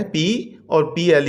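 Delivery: "पी और पी एल" slowly broken into parts; syllable by syllable. Shown as a demonstration. Teacher dividing a word for pupils, syllable by syllable. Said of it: "two syllable word है".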